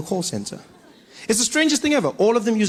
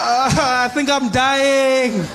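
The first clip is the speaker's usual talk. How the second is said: pained; 6 semitones higher, 4 dB louder, much slower than usual. Retold or imitated. Shot man answers.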